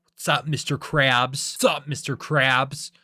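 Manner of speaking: lightly voiced tough guy; SpongeBob. Hero greets Mister Krabs, mild tough-guy act. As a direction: greet the boss with a hint of swagger. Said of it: "tough guy persona".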